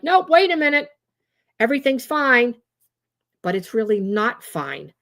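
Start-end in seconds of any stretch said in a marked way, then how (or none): 0.0-2.5 high-pitched mock protest; protesting prefrontal cortex. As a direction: cut in as the brain insisting on calm. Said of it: "the prefrontal cortex is like".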